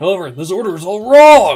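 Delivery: sudden loud voice. Objecting that the order is all wrong: suddenly raised voice. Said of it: "You don't need to raise your voice so suddenly".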